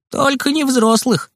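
high, slow, alarmed plea; startled cry. A narrator's reading. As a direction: cry out in a pinch of fear. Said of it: "вскрикнул он". (испуганный вскрик)

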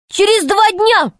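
high, startled outburst; dismayed exclamation. A narrator's reading. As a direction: blurt it out in disbelief. Pashka dismayed at two days.

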